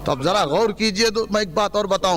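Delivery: rousing sermon to a crowd; fiery preaching. Real, not acted. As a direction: preach it rhythmically, ringing out each city name. Preacher addressing a religious gathering.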